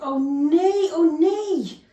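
a lost cub as night falls; scared little bear. Acted. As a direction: panic high and loud, lost.

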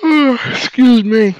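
words stretched by a yawn; slow, yawny apology. Real, not acted. Player excusing himself mid-game, yawning.

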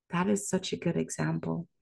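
quick unvoiced whisper. Shown as a demonstration. Savoring the dictionary example, whispered quickly. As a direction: breathe it out as a hushed aside. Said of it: "repeats the line, then whispers".

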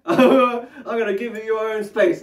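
laughing. Real, not acted. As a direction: say it through a laugh, drawn out. Laughs while repeating the promise.

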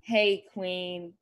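low, soft, measured first-lady impression; Michelle Obama. Friend doing a requested impression, low measured first lady. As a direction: drop it low and leave pauses between phrases. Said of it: "Give me your Michelle Obama impression".

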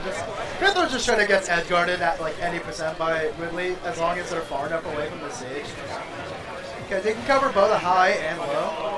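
robotic mic distortion. Real, not acted. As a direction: sounds like a glitchy robot. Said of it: "why do you sound like a robot".

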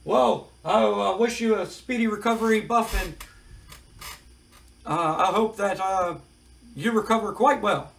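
lightly sarcastic interviewer. Retold or imitated. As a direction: lay the fake pity on thick. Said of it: "Mean Gene kinda sarcastically says".

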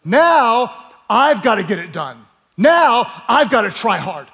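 hammed-up self-pressuring Christian; imitating anxious Christians. Preacher mocking believers who work to earn grace, building. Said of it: "what Christians tend to think is".

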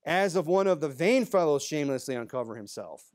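cutting sarcastic recital; emphatic, scornful quote. Acted. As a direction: read it as a cutting remark. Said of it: "It's full of sarcasm".

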